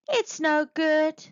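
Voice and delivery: high, regretful monkey voice; mock sadness. A narrator's reading. Monkey tricking the dancing monster, feigning sadness. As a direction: lament it in a high voice. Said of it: "she said sadly".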